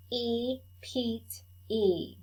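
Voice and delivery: each sound said slow and clear for the class to copy; teacher modelling A for repeat; vowel demo. Shown as a demonstration. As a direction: model the long vowel for echo. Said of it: "I'll say it, then you say it".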